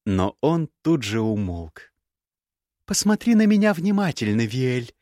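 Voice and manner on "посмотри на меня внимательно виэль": each word set out coldly, pitched higher and louder; cold measured scorn, higher and louder; icy clipped voice. Acted. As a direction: freeze him with every syllable. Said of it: "отчеканила она ледяным голосом".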